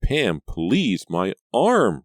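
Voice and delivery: high, loud pained plea; injured girl crying to her hugging cousin. A narrator's reading. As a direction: wince it out as the arm hurts. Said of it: "Reva cried".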